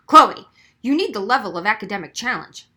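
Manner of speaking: loud, horrified insistence. A narrator's reading. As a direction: blurt it out in shock. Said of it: "He was horrified".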